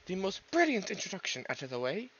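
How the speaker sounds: British accent creeping in on a retake; accidental British accent. Real, not acted. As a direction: slip into a British accent unintentionally. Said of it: "Why do I sound British?".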